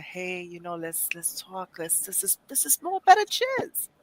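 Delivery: soft, smooth, half-spoken croon; smooth nice voice. Retold or imitated. Mocking a smooth poet's nice voice, soft crooning. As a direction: croon it softly like a smooth sax ballad. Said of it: "the smooth with the saxophone".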